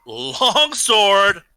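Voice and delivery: high, loud mock battle shout; battle cry. Player announcing his attack to the table, battle cry. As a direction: call the weapon out like an attack move.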